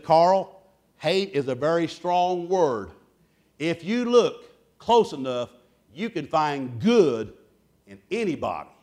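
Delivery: put-on calm a hurt child slowly; gentle mother. Mother gently corrects her son.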